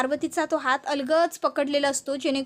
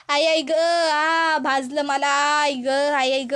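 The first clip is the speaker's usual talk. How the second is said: cries of pain; 3 dB louder, slower than usual. Acted. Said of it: "जोरात ओरडायला लागते".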